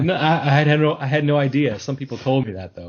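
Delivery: mock surprise. Playing the singer's feigned surprise.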